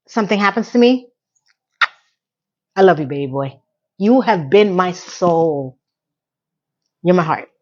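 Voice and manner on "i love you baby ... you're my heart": tearful. Real, not acted. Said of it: "Oh, I'm starting to cry".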